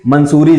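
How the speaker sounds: मंसूरी said "man-soo-ree", with an extra n; मंसूरी as people wrongly say it, "man-soo-ree"; common mispronunciation. Retold or imitated. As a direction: put an n before the s in मंसूरी. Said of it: "लोग कहने लगते हैं".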